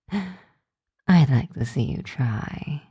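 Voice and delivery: slow, amused, through a laugh; laughing challenge. Acted. Vampire girl daring her tutor to motivate her, laughing slowly. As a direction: dare him while still laughing.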